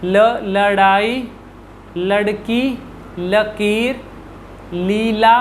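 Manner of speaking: ल words spoken slowly, the tongue touching lightly; la words demo. Shown as a demonstration. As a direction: read लड़ाई and लकीर deliberately. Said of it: "ल के जो words हैं".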